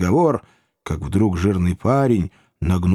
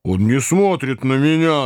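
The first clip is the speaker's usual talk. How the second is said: put-on the boy; 4 semitones higher than usual. A narrator's reading. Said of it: "отвечал парень".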